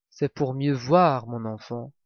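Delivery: sinister wolf, low and hushed; big bad wolf. Wolf in grandmother's bed answers the girl, low.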